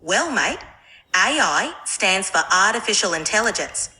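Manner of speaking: put-on mild Australian accent; relaxed Aussie explanation. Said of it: "Can you speak in Australian accent?".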